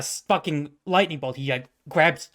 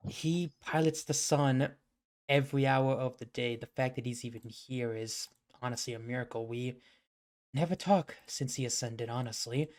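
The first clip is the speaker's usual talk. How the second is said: sighing, resigned; 6 dB quieter than usual. Acted. Anubis explaining his absent brother to his son, sighing and subdued. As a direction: let it sink quietly like a weary sigh. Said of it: "he just sighs and he just goes".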